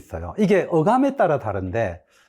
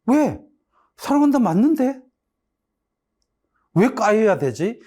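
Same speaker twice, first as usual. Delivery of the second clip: mock indignant protest; 7 semitones higher than usual. Student protesting his lost points, mock indignant and higher. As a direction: play a student wrongly protesting the grade. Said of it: "이런 항변은 잘못된 항변".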